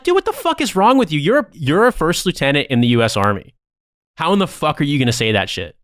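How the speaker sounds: high-pitched, incredulous retelling; incredulous outrage. Retold or imitated. Telling off a first lieutenant for a crass remark, incredulous. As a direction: call him out in disbelief, pitch leaping up then settling.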